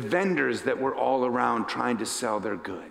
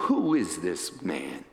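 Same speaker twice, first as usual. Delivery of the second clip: chuckle in voice; 7 semitones lower than usual. Acted. Jesus stopping for the man who shouted, gently amused. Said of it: "with a chuckle in his voice".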